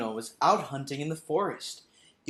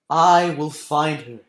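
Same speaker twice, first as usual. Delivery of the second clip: slow, louder solemn promise; vowed; 6 dB louder, slower than usual. Acted. Tamino pledging to the Queen to find Pamina, solemn and slow. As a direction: swear it from the heart. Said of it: "he vowed".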